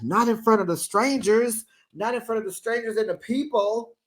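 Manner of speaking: high prim mock voice; prissy mimicry. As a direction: mimic her primly. Quoting Trisha prissily.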